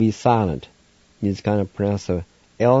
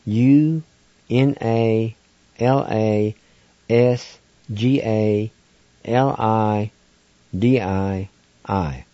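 spelling it out slowly; much slower than usual. Shown as a demonstration.

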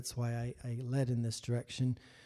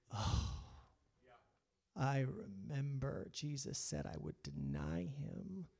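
stunned realization; 10 dB quieter than usual. Retold or imitated. Peter's memory returns.

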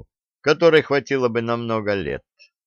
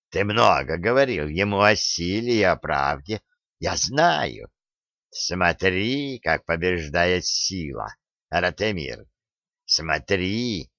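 menacing spider demon; 2 semitones lower, 3 dB quieter than usual. Acted. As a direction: taunt him softly like a monstrous spider. Spider demon Umrun taunts Oleg.

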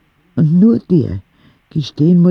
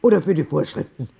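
put-on much higher, fast, fed-up old lady; Oma Rosa scolding; 7 semitones higher than usual. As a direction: put the whole ward in its place. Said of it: "sagte Oma Rosa". (resolute alte Dame, hoch und schnell, die Schwestern zurechtweisend)

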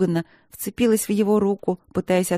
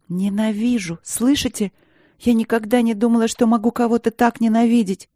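higher, louder tearful rage; tearful fury; 4 semitones higher, 3 dB louder than usual. Acted. Princess rages at the professor, high and loud. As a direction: hurl hatred at him. Princess raging through tears.

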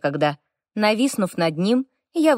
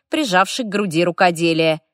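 ordinary delivery, nothing marked

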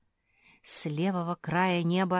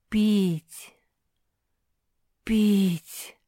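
louder, otherworldly moan of thirst; a ghostly voice calling over the desert; eerie distant call; 4 semitones higher, 7 dB louder than usual. A narrator's reading. A voice over the pugs' heads calls out, eerie. Пронеслось над головами мопсих.

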